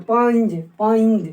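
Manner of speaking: पंज sounded as pa-inj; पंज repeated with the nasal ञ brought out; palatal nasal shown. Shown as a demonstration. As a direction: let an ee-like ny glide into पंज. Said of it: "तो इसमें उच्चारण हो रहा है ई का".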